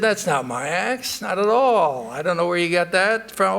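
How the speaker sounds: greedy woodman refusing the iron axe, loud and firm; insistent denial. Acted. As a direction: push the offer away hard.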